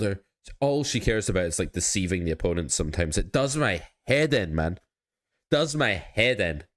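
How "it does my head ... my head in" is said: slow, exasperated complaint; frustrated. Real, not acted. Coach vents about a student's play, slow and exasperated. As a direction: let the frustration out, drawn out. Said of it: "I was getting a bit frustrated".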